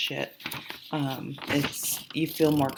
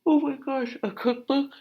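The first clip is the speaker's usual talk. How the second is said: flustered surprise; 11 semitones higher, 3 dB louder than usual. Real, not acted. Flustered at own slip.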